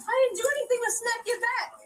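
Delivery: distressed wailing yell; crying shout. Real, not acted. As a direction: cry out in pain and panic. Crying out after being tased.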